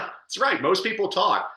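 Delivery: emphatic. Retold or imitated. Reacting to poem, emphatic.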